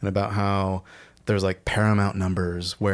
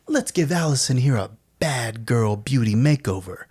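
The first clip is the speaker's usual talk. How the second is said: quote; 4 semitones higher than usual. Retold or imitated. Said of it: "Pepper's like".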